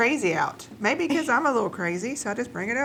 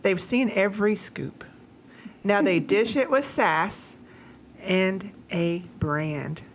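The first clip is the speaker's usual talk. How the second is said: limerick reading; 3 semitones lower than usual. Acted. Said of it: "A limerick".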